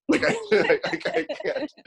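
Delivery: high squeaky laughing break. Real, not acted. Cohost laughing too hard to finish. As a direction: crack up mid-sentence.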